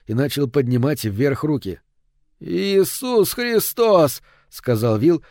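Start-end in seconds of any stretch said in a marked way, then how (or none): 2.4-4.2 high, slow, drawn-out astonishment; jaw-dropped shock. A narrator's reading. Will seeing the killer's pistol, jaw-dropped astonishment. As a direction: stretch it out high, utterly stunned. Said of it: "у него словно отвалилась нижняя челюсть".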